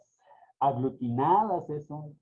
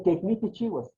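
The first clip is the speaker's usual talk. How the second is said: quejní with the final í stressed; stress on the last syllable; 4 semitones higher than usual. Shown as a demonstration. Teacher showing quejní is an aguda word, final-syllable stress. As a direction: land the accent on the end of quejní. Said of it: "quejní es una palabra, eh, aguda".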